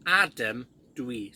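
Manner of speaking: Adam dwi slow, dwi as doo-ee; teacher demonstrating a self-introduction; Welsh introduction. Shown as a demonstration. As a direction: say Adam dwi slowly and clearly. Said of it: "So, for example".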